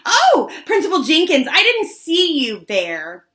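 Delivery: loud, high fake surprise; hammed-up innocent surprise, high and loud; high and weird. A narrator's reading. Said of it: "got all high and weird".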